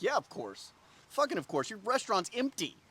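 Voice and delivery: mildly scornful mock agreement; a touch of exasperated sarcasm; sarcastic echo. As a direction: echo the host with dry irritation. Own sarcastic echo of the host.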